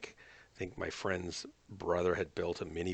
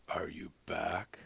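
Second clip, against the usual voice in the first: whispering; 3 semitones lower, slower than usual. Real, not acted. Whispered repeat to teammate.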